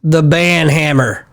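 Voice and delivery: chuckling through the words; laughing. Real, not acted. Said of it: "laughs while saying it".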